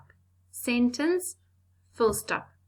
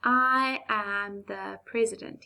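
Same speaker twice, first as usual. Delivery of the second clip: formal president; slower than usual. Retold or imitated. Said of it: "he will say".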